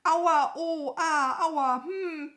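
loud, high theatrical wail; hammed-up whimpering cries; wailing in pain. A narrator's reading. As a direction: moan and howl like a hurt crow. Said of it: "die Krähe begann zu jammern".

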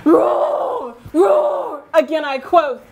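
hammed-up shouted roar; mock dinosaur roar. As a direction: roar like a stage T-rex. Dinosaur roaring at others.

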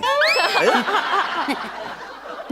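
drawn-out burst of laughter. Acted. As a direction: laugh long, letting it trail away. Wife laughing at his dhokla joke.

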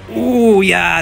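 high, loud ooh of surprise; impressed ooh. Real, not acted. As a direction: react like you're impressed. Reacting to aggressive call.

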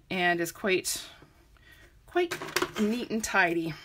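talking through hiccups; words broken by a hiccup. Real, not acted. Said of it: "I have the hiccups all of a sudden".

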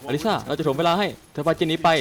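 dubbing the cutscene. Acted. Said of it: "พูดในฉากก็พอละ".

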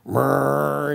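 hummed conveyor motor noise; imitated machine whir. Storyteller shows the card conveyor starting, droning whir. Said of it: "it goes".

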